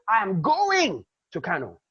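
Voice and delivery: going said firm and loud; nothing can stop me on going; stress on going. Shown as a demonstration. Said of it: "there's nothing that can stop me".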